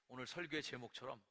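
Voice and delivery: normal talking voice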